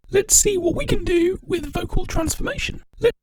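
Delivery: sped-up chipmunk effect. Shown as a demonstration. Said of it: "Have you seen Alvin and the Chipmunks?".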